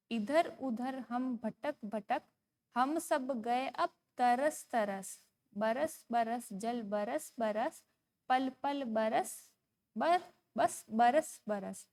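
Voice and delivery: slow, measured sing-song recital; poem recitation. Shown as a demonstration. Teacher reading a poem to young pupils, slow sing-song. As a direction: read each word out slowly for children to follow.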